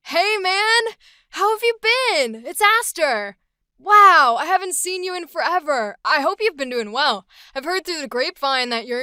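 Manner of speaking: high, bright, loud friendly greeting; playful sidekick catching up with an old friend; upbeat joyful. Acted. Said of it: "let's go with this upbeat, joyful, comedic side energy".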